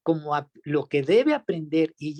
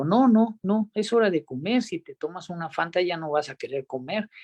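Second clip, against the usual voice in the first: firm father. Retold or imitated. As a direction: set the limit like a dad. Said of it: "y le dije yo".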